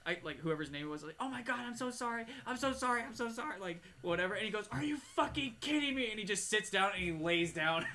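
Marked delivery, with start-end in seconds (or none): 1.2-3.6 high, pleading mock tears; crying retelling. Mom apologizing for rear-ending her son, mock crying plea. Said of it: "she starts, like, crying". 4.7-6.1 high-pitched mock disbelief; incredulous outburst. Son to mom who rear-ended him, mock incredulous outburst. Son's disbelief at mom's crash.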